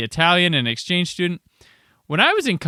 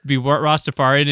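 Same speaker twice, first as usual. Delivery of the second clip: normal talking voice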